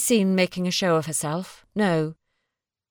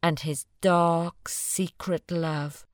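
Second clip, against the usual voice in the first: poem reading; slower than usual. A narrator's reading. Reads the Blake poem.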